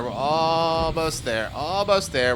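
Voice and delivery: drawn out while holding breath; slow, strained. Real, not acted. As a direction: stretch it out, tense and slow.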